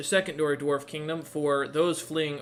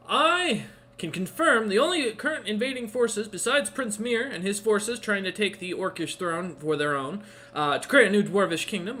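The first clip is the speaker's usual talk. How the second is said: raised, higher guard's voice; yelling guard; 6 semitones higher than usual. Acted. Guard reporting invaders to his liege, mildly yelling. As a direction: report it with a mild mock yell. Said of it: "turns and yells right in your ear".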